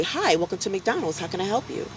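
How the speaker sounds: light, polite recorded-greeting lilt; imitating the live greeting in the recorded style; drive-thru greeting voice. Going live at the drive-thru, he greets in a polite recorded voice. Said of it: "I'd go live and say".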